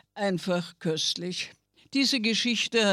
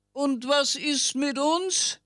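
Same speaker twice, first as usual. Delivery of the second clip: birds screeching; 6 semitones higher than usual. Acted. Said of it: "kreischten die Vögel".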